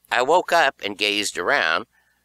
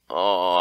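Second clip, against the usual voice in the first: moan; 3 dB louder than usual. A narrator's reading. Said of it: "I moaned".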